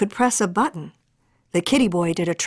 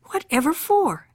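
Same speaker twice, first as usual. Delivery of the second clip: mother voice; 8 semitones higher than usual. Acted. Mother asks the girls.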